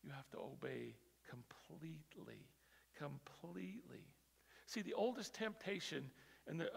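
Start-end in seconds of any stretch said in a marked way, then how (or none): 0.0-4.0 breathy urgent whisper. Real, not acted. Preacher whispering to the congregation to obey fully. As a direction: hush it down, make them lean in.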